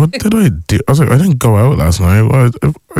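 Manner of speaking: high, bewildered self-defence; what have I done now; retold panicked protest. Acting out panicked innocent reaction.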